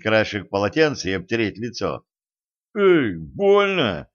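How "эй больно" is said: pained yelp. A narrator's reading. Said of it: "отпрянул Кощей".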